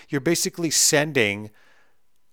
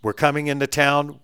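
louder, higher mock telegram recital with punchy stops; hammed-up telegram message; reading a telegram; 3 semitones higher, 5 dB louder than usual. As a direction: read it out like an old telegram, hitting each stop. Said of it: "It'd be like".

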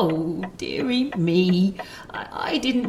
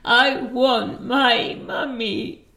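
put-on lightly higher little-child whine; childlike plea; 4 semitones higher, 3 dB louder than usual. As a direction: beg for mummy like a child.

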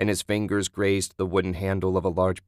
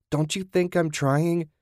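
much higher, strained wail; 9 semitones higher than usual. A narrator's reading. Julie snapping back at Ted, high wail. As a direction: cry it out in desperation. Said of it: "Julie wailed".

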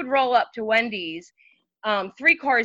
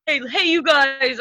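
slower, higher playful "hey, hey, you guys"; his little voice; 4 semitones higher, 4 dB louder than usual. Retold or imitated. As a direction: drag out a teasing greeting. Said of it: "In your little voice that you do".

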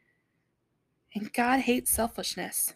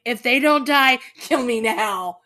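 hammed-up sulking prophet; retold tantrum; 6 dB louder than usual. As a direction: act out Jonah's sulky demand. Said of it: "he's like".

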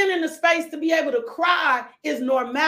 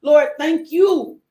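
low, earnest praying voice; preacher prays over the church; closing prayer; 3 semitones lower than usual. Real, not acted.

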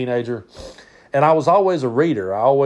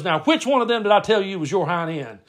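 higher-pitched testing question; quizzing uncle Brad; 7 semitones higher than usual. Retold or imitated. Uncle testing cousin on paper wads, pointed quizzing. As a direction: quiz him like an uncle setting a trap. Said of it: "And he goes".

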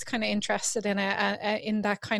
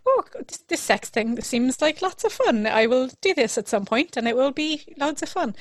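higher, louder mock-excited thought; retold naive enthusiasm; 4 semitones higher, 6 dB louder than usual. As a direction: act out a delighted discovery, pitch leaping on the first words. Acts out her younger self's enthusiasm.

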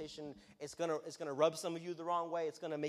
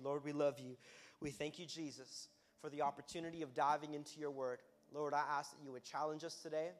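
prayer. Acted. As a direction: pray aloud for the room. Leads a prayer.

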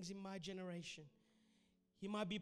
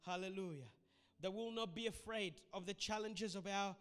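prayer. Acted. Prayer over music.

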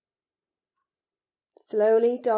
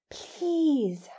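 raised, urgent plea without whispering; frantic plea; 6 semitones higher than usual. A narrator's reading. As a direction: plead with mild panic. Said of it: "Harry whispered frantically".

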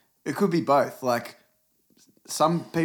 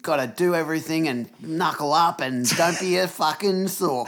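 mock tough-guy lecture; 3 semitones higher, slower than usual. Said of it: "I've always hated that fucking, that man phrase".

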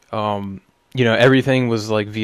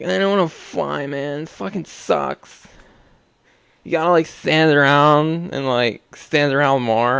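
whiny complaint. Retold or imitated. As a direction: moan like a spoiled traveler. His whiny future self quoted.

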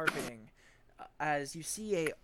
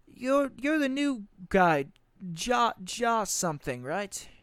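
captain; 5 semitones higher, 4 dB louder, slower than usual. Acted. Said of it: "he looks at Jamek and he's like".

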